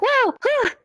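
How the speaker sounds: sudden high yelp of surprise, as if hit from behind; startled whoa. Retold or imitated. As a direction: jump at an unexpected touch. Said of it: "You're like".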